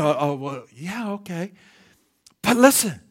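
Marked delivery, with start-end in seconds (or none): 0.0-1.5 lower, mildly unimpressed mock response; imagined listener's indifferent reply. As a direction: voice a lukewarm, half-hearted agreement. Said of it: "I know you're thinking".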